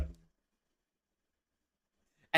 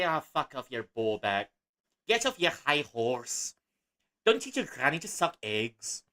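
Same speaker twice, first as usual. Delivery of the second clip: bad Scottish impression. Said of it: "that's a terrible impression".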